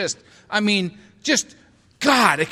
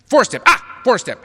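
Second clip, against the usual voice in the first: higher, louder mock delight; mock excitement; 6 semitones higher, 6 dB louder than usual. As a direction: act thrilled to hear it. Mock surprised reaction.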